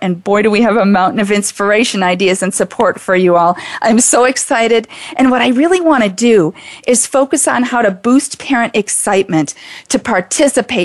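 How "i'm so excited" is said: ordinary talk, nothing marked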